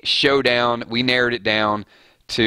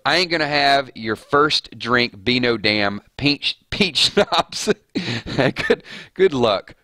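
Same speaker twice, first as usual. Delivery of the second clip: breaking into laughter; 3 semitones higher, slower than usual. Acted. Rereading the Daryl quote, cracks up.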